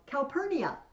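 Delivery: high, loud call for someone; imperious shouted name; yell. Acted. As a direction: call out to your wife as Caesar. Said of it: "we hear is Caesar yell".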